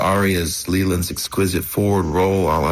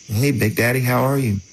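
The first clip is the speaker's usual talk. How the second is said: phone greeting; 5 semitones higher than usual. Acted. Acts own phone call to dying grandfather.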